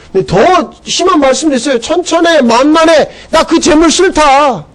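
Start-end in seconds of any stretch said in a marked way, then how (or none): 1.8-4.6 slow voice of God. Acted. Voicing God's rejection.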